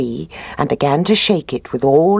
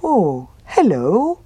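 slow, happy bear greeting; drawn-out happy hello as the bear; 5 semitones higher, slower than usual. A narrator's reading. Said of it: "said the bear happily".

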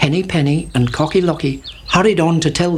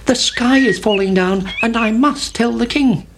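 high little chick voice; Chicken Licken; 6 semitones higher than usual. A narrator's reading. Chick runs to tell the king, high and urgent. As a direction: pipe it up like an alarmed chick. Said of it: "said Chicken Licken".

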